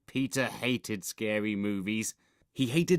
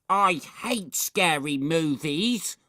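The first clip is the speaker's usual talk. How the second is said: timid little brother; 6 semitones higher, 5 dB louder, slower than usual. A narrator's reading.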